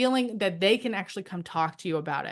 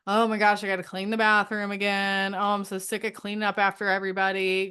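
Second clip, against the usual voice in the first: mock complaining. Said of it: "going around saying how much I don't wanna do housework".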